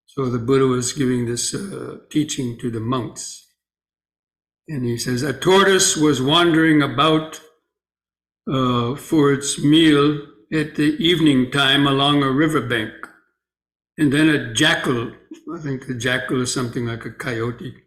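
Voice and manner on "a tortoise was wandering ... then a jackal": slightly raised, measured storytelling voice; story read aloud. Acted. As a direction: read a teaching tale out clearly to the group. Reads the sutta story aloud.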